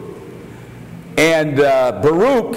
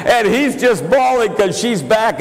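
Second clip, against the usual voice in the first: higher voice, laughing through the words; 8 semitones higher than usual. Real, not acted. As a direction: tell it through real laughter. Laughing while retelling the story.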